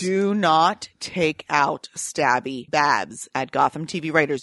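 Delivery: slow, mock threatening plea; mock warning. Real, not acted. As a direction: drag it out as a warning. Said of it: "I'm glaring".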